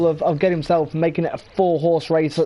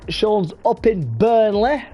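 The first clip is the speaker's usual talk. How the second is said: put-on Burnley accent; 2 semitones higher, slower than usual. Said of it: "That was the worst accent ever".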